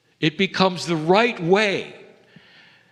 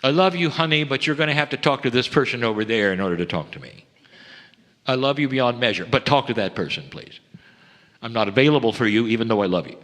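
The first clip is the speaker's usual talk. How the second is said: mock God's voice; 3 semitones lower, faster than usual. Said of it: "And that is simply comical".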